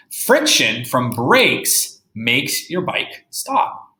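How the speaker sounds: slow, careful read-aloud; reading a picture book to a class; reading to children. Acted. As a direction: read the book slowly for young kids. Reads the book slowly.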